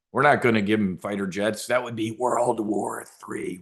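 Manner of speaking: a hint of a breathy, slowed Biden impression; mock Biden creepy whisper. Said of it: "used to do the creepy whisper into the microphone".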